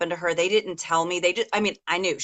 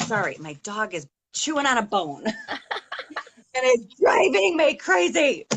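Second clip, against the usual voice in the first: laughing apology; 4 semitones higher than usual. Real, not acted. Dog chewing bone, laughs.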